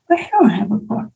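whispered confession; hushed admission of failure. Real, not acted. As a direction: breathe it out like a secret. Admitting failure.

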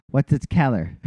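imitated Pittsburgh accent on "color"; akcent pittsburski. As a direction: mimic a Pittsburgh local saying "color" like "keller". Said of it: "is a Keller".

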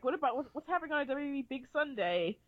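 lightly voiced network promo announcer; mock TV announcer. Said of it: "W B guy saying this".

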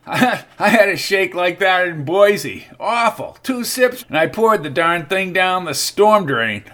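lightly voiced old druggist; folksy old man, amused. A narrator's reading. Old druggist Albert speaking.

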